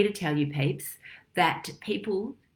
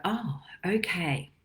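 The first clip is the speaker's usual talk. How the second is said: meek whisper; slower than usual. Retold or imitated. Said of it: "what we then go".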